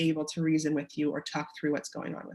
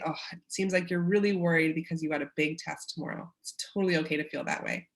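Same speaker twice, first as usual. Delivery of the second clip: validating parent; 2 semitones lower than usual. Shown as a demonstration. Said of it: "you say".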